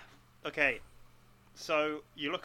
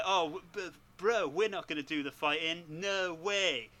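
surfer dude voice; 4 semitones higher, slower than usual. Pretend. Bill and Ted announce themselves.

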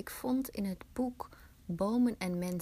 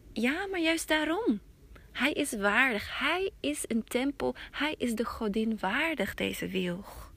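higher, firm reply; the elder brushing off the protest; elder insisting the willow is worthy of the goddess; insistent elder; 3 semitones higher than usual. Acted. Elder answers Hetaro.

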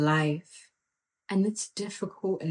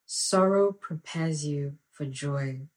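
slow solemn quote; 3 semitones lower, slower than usual. Real, not acted. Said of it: "Oof. Sorry, man".

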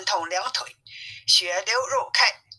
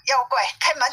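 raised, higher-pitched call; loud call; 5 semitones higher than usual. Acted. Wukong calls to the demon at the cave gate, loud call. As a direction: call out for the door to open. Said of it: "高声叫道".

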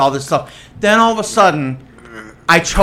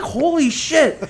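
laughing; 9 semitones higher, 3 dB quieter, slower than usual. Retold or imitated. Blood on the bib, laughing.

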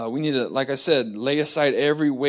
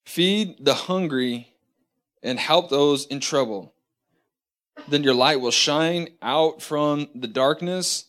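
unhurried reading from the pulpit; scripture reading. Acted. Reads scripture aloud.

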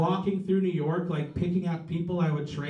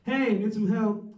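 airy, higher-pitched, nonchalant greeting; breezy casual caller; 4 semitones higher than usual. Pretend. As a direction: toss it off like calling a buddy. Imagined casual 911 call.

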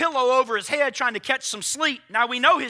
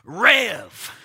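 casual modern address; 3 semitones lower than usual. Retold or imitated. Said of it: "Let me put that in our vernacular".

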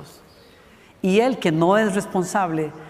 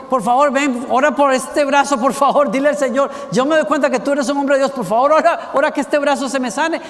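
higher, louder, urgent imitated plea; mock tearful pleading; 6 semitones higher, 5 dB louder than usual. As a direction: act out a desperate beg without real tears. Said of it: "Y llorando dijo". (súplica llorosa fingida, aguda y fuerte)

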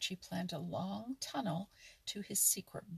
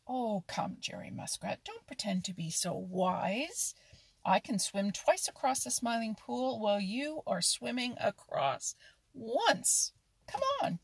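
louder, higher bragging dare; boastful challenge; 3 semitones higher, 5 dB louder than usual. Acted. Otter dares the muskrat to race, boasting loudly. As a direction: egg him on into a race.

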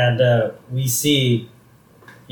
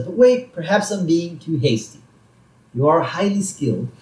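higher-pitched scheming boss, lightly voiced; Mister Burns; 4 semitones higher than usual. Boss toying with fired worker, lightly hammed-up reconsidering. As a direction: pretend to have second thoughts.

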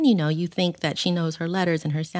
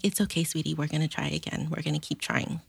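softly comforting, voice dropping away; gentle reassurance; 5 dB quieter than usual. Retold or imitated. Mom comforting her daughter after an apology, gentle and soft. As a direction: soothe a child, retold softly.

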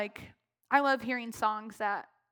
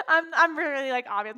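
a laughing, teary squeal; embarrassed worship leader, laughing and tearful; laughing through tears; 2 semitones higher, 8 dB louder than usual. Real, not acted. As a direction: giggle while still crying. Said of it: "Don't laugh".

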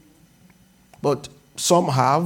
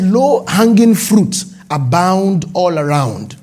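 slow deliberate reading; slower than usual. Shown as a demonstration. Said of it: "I'm reading now, just as God ... spoke to me".

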